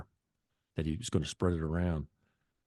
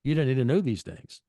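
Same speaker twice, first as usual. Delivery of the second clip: higher and louder, insisting to his wife; raised voice laying down the law to his wife; raised firm retort; 9 semitones higher, 5 dB louder than usual. Retold or imitated. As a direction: tell her flatly she didn't need to know. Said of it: "I said".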